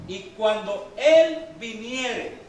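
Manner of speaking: slow and loud, leaning on "Él"; emphatic verse reading. Real, not acted. Teacher reads the verse to the class, stressing "Él". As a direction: read it slowly, weight on "Él".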